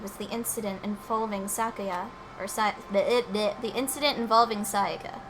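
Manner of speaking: softly voiced Sakura; voiced game character. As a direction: read it as the stoic fighter. Reads game character's lines.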